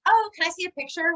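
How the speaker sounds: high, quick sweet boss voice; chirpy boss asking; imitating boss. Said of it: "a lady, was like".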